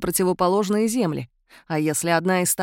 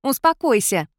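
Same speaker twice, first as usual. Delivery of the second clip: louder, higher snapped order; sharp shout; 5 semitones higher, 4 dB louder than usual. A narrator's reading. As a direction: snap her out of panic. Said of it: "прикрикнула на меня Игнесса".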